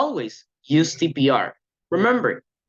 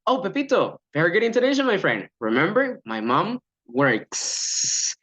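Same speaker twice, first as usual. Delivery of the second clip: correct coaching delivery; 3 semitones higher than usual. Shown as a demonstration. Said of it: "But the correct thing will be".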